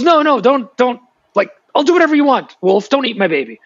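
put-on high, squeaky begging voice of a baby raven's parent; frantic high-pitched bird begging for its chick; pleading raven. Raven pleading in retold tale.

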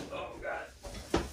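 strained groan with a sore back; effort grunt. Real, not acted. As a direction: groan under the breath while straining. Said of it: "I do apologize about the grunting and groaning".

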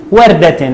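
وردة as "wardatin"; tanween with kasra. Shown as a demonstration. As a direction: end وردة on "-tin". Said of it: "وعند التنوين بالكسر هنقول".

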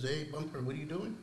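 taunting devil. Acted. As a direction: needle him like a mocking tempter, lightly voiced. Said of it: "He says".

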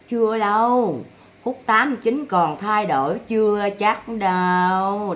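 slow, low mock voice of old Sáu; imitating Sáu. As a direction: drag it out like a smug old schemer. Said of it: "Sáu nói vậy đó".

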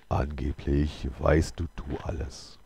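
slow, measured voice of an odd visitor; hesitant stranger. A narrator's reading. The stranger questions the holy man, slow and deliberate. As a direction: draw the words out slowly.

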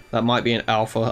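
ordinary talk

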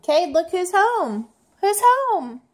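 bright singsong announcement; welcoming someone home. Real, not acted. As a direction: sing out that daddy's here. Mom announcing dad's arrival.

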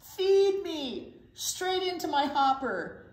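a lightly voiced swaggering truck; boastful garbage truck. Reading to kids, a cocky garbage truck brags. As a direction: brag like a proud garbage truck.

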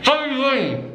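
cheeks stuffed, mumbled words; mouth full. Real, not acted. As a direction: barely articulate through the mouthful. Chubby Bunny game, mouth stuffed.

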